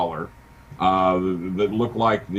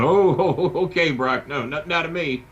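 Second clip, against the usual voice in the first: laughing along; 6 semitones higher than usual. Retold or imitated. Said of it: "Playing along with him".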